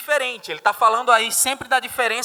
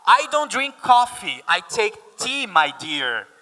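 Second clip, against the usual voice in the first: British lyric; slower than usual. Shown as a demonstration. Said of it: "Então vamos lá".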